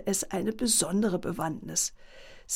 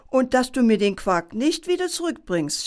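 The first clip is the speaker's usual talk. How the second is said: stern mother; 3 semitones higher, 3 dB louder than usual. Acted. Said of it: "schärfte sie ihren Sohn ein".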